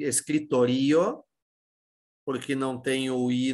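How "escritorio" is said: escritorio slowly, shown as a wrong stress; wrong stress demo. Shown as a demonstration. Teacher shows students an impossible escritorio, slow and drawn out. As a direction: drag out escritorio as the form it can't be. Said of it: "Não pode ser escri".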